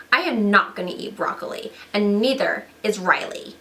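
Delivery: lightly voiced snooty disgusted girl. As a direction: turn your nose up at it. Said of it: "it's me, Disgust".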